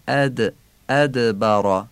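ادبرا slowly, with a bounce on the d; echoing d. Shown as a demonstration. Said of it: "قلقله داره".

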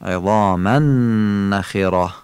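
عظاما نخره joined on a long hummed n; held nasal merging. Shown as a demonstration. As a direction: stretch the n from عظاما into نخره through the nose. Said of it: "با کشش و با غنه". (عظاما نخره با ادغام، کشش و غنه)

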